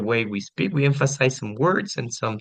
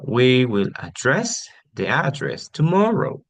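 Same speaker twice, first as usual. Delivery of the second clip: slow, careful stress on each "address"; word stress demo; 3 semitones higher, slower than usual. Shown as a demonstration. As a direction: contrast "address" as verb and as noun, deliberately. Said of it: "correct way of pronouncing these words".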